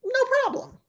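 airy, breezy dismissal jumping high on no problem; breezy king. Acted. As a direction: toss it off lightly, as if nothing could be easier. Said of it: "So King Ahav says".

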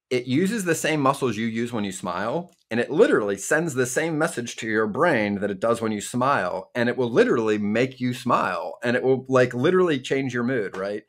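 talking with a pen between the teeth; pen in mouth. Real, not acted. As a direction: speak around a pen held in the mouth. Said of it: "Ben did just put a pen in his mouth".

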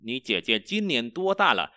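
slow, careful Chinese question; slow teacher model; slow model reading. Shown as a demonstration. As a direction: read it slowly for students. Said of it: "Chị gái bạn năm nay bao nhiêu tuổi?".

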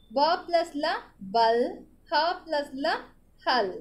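classroom spelling drill; teacher builds words letter by letter for pupils. Shown as a demonstration.

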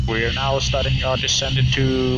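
airport announcement. Pretend. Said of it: "this is your captain speaking".

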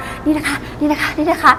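overacting. Shown as a demonstration. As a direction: ham up each repeat like a fidgety presenter. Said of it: "acting เยอะมาก".

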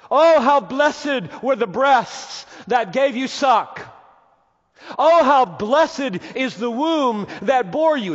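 slow, loud, high gushing; gushing mock praise. Preacher mocking the woman's praise of the womb, gushing. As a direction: ham up the woman's rapture.

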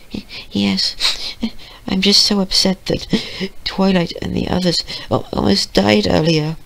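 high, small tearful voice, faltering; upset little pony, acted high and halting; crying. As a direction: stammer through tears in a soft, high-pitched girlish squeak. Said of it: "she was crying".

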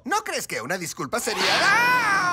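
laughing scold. Acted.

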